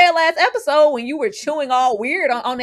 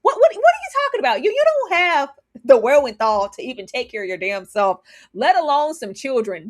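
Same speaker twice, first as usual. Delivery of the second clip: retold outburst; 2 semitones higher than usual. Viewer scolding Rue for wanting kids, an incredulous telling-off. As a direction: snap back at her in disbelief. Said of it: "I said".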